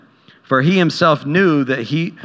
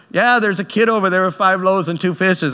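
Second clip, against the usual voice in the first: sarcastic; 5 semitones higher than usual. Retold or imitated. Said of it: "said that kind of sarcastically".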